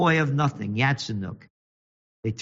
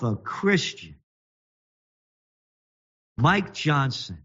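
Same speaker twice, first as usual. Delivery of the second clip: contempt; 4 semitones higher, slower than usual. Real, not acted. Contemptuous rant at lawmaker.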